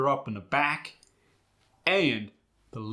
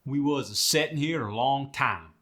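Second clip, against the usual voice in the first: Midwest dialect with tight, firm R; Midwest accent; 3 semitones higher than usual. Shown as a demonstration. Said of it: "Don't do that in the Midwest".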